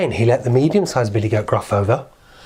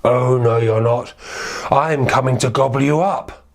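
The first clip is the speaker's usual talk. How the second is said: troll voice. Acted. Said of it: "And the troll said".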